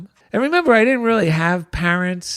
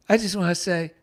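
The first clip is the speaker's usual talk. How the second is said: words breaking into a real laugh; real laughter while telling; laughing through it; 6 semitones higher than usual. Real, not acted. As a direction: laugh as you retell it.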